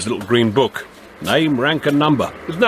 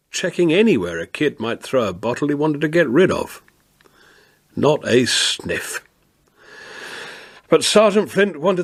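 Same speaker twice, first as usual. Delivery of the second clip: story narration. A narrator's reading.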